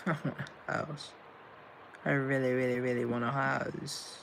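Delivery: breathy laughing whisper, fast; whispered through a laugh, fast. Real, not acted. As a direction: giggle the words under your breath.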